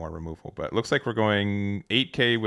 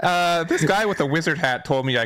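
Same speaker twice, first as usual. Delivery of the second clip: flat robotic delivery; 7 semitones higher, 4 dB louder than usual. Acted. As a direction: talk like a stiff robot. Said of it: "You sounded like a robot doing it".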